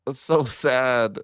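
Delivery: slow, drawn-out mock lament; mock sad. Real, not acted. Gamer mourning a failed campaign, slow mock lament. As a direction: stretch so and sad like a pouting sigh.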